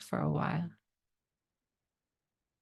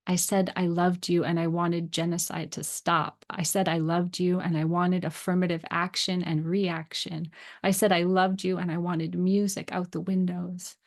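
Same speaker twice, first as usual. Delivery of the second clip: steady, rhythmic recital of a refrain; poem reading. Acted. Writer reciting June Jordan's poem to listeners, measured poetic recital. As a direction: read the poem like an incantation.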